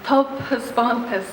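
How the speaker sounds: measured Irish poetry reading with pauses between lines; poem recitation. Acted. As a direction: read it out as verse, phrase by phrase. Reads second poem in Irish.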